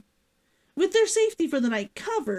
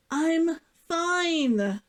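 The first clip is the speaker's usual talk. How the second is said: a quick, higher insistence that she's fine; protesting; 7 semitones higher than usual. A narrator's reading. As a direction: brush off his concern with mild protest. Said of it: "she protested".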